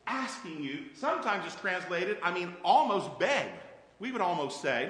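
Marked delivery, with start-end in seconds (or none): 0.1-0.9 soft pleading. Retold or imitated. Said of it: "He's saying".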